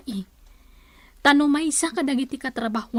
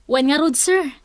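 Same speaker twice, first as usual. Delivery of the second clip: whisper; 3 dB louder than usual. Acted. Employee answers in hush.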